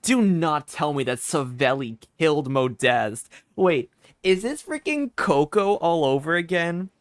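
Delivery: ordinary talk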